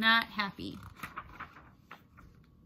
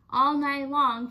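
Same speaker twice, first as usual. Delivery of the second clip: louder, slow and drawn out; dramatic emphasis; 4 semitones higher, 8 dB louder than usual. A narrator's reading. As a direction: stretch it for suspense. Dramatic narration.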